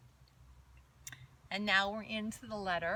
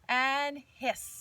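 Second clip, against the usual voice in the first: snake voice; 2 semitones higher, 4 dB louder than usual. Shown as a demonstration. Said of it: "take a breath in".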